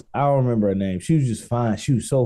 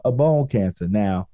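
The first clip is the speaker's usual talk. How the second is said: usual speaking voice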